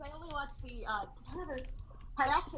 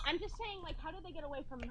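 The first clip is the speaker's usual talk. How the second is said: breathy anime heroine lilt; 5 semitones higher, 7 dB quieter, faster than usual. Real, not acted. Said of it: "magical girl accent convergence".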